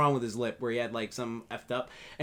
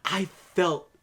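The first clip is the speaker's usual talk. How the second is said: tearing up; 4 semitones higher, 6 dB louder than usual. Real, not acted. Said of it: "is tearing up".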